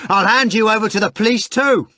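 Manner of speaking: very high, loud furious threat. A narrator's reading. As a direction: threaten him at full fury. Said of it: "Ivan cried furiously".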